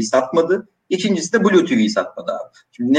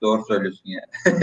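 laughing while speaking; chuckling through the words; 5 semitones lower, 4 dB quieter, faster than usual. Real, not acted. Reads a funny comment, laughs.

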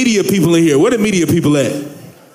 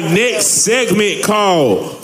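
segment announcer; slower than usual. Acted. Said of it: "announcing segment title".

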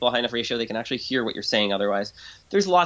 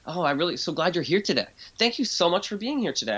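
emotional, lively tone; 4 semitones higher than usual. Shown as a demonstration. To a difficult person, warmly lively. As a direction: pitch rising and falling with feeling, a little higher. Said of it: "You wanna use more emotional tonality".

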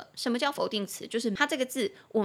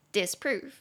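disprove, dis light and prove stressed, said slowly twice; stress on second syllable. Shown as a demonstration. Teacher modelling disprove slowly, stress on prove. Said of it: "重音节在第二".

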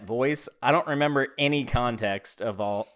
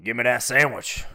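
light redneck voice; 2 semitones lower than usual. Shown as a demonstration. Cohost asks for the redneck voice, lightly voiced redneck. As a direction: toss off the redneck line lightly. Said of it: "Can you give it to us?".

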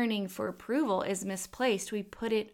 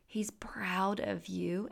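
whispered reassurance; 4 dB quieter, slower than usual. Acted. Reassuring listeners of God's love.

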